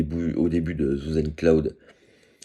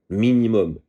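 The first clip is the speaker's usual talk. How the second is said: Minimum punched louder and higher; stress on minimum; 5 semitones higher, 5 dB louder than usual. Real, not acted. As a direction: hit Minimum hard, falling. Repeats word with emphasis.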